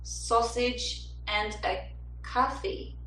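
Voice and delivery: slow, careful attempt at a New Jersey accent; tentative New Jersey vowels, slowly. Shown as a demonstration. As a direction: try it New Jersey style, drawn out. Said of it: "New Jersey sounds like a".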